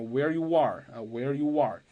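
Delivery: where you are with a small w glide into are; linked where you are. Shown as a demonstration. Teacher modeling where you are with a linking glide. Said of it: "插入一个半元音".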